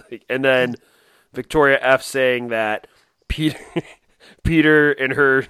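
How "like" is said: breathy whispered like. Real, not acted. Cohost whispers an aside while laughing. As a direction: drop to a whisper mid-laugh.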